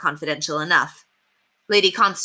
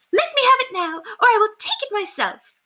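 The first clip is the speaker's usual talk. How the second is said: threatening. Acted. Furious lady threatens to take the letter herself. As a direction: threaten her, voice climbing.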